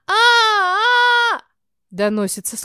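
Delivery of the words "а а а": put-on high, loud child's crying wail; child's wailing scream. Child in the kitchen howls over pizza, wailing scream. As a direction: let out a long child's howl.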